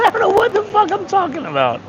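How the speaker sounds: sleepy giggle through the words; laughing at himself. Real, not acted. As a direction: laugh at your own rambling.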